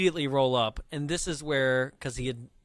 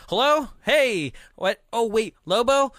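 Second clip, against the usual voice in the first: higher and louder, playing a startled stranger on the phone; a flustered guy pretending to be someone else; Gus faking a voice; 7 semitones higher, 5 dB louder than usual. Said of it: "decides to do a third impression".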